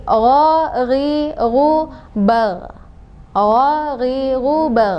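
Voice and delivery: gho between O and A; correct gho. Shown as a demonstration. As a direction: voice the gho from the upper throat. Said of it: "tengah-tengah".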